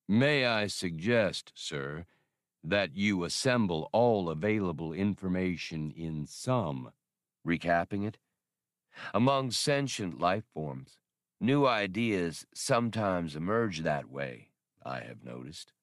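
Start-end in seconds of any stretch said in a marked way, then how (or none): 0.1-6.9 slow, even droid voice, no emotion; lightly voiced robot, dry and measured; deadpan machine drawl. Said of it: "an absolutely deadpan delivery". 9.1-15.7 lightly voiced robot, dry and measured; deadpan droid. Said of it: "an absolutely deadpan delivery".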